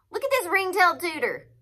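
high, loud colonel's shout. A narrator's reading. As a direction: shout it out to the whole camp. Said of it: "Colonel Crockett shouted".

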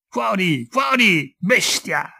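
sudden furious yell, high and loud; shouting. A narrator's reading. Father throwing the servant out, furious shout.

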